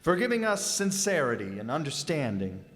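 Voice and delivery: reverent, measured grace at the table; solemn Thanksgiving prayer. Acted. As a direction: say grace humbly for the family. Father says a special grace.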